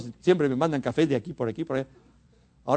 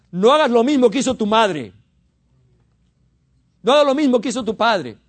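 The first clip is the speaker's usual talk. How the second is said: raised, louder preaching warning; forceful exhortation; 5 semitones higher, 5 dB louder than usual. Real, not acted. Preacher warning the congregation about their parents' ways, forceful exhortation. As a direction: warn them emphatically, pitched up.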